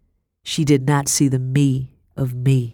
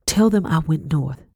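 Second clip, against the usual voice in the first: gasping. Acted. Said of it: "I gasped".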